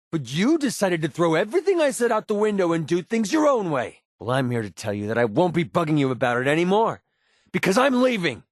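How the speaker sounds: angry farewell. Acted. Companion quits after warning.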